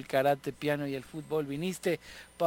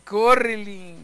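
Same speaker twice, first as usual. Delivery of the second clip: louder, higher mock cry of córrele; panicked yell; 5 semitones higher, 8 dB louder, slower than usual. Frightened boy urging others to run, hammed-up yell. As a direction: yell córrele as if fleeing the devil. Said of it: "le gritaban eso y dice".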